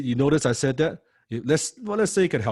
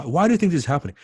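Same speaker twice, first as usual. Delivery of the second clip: louder, pressing on do; punchier repeat; 5 semitones higher, 5 dB louder, much faster than usual. Shown as a demonstration. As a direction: push the client for the real reason. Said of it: "this tells you the why".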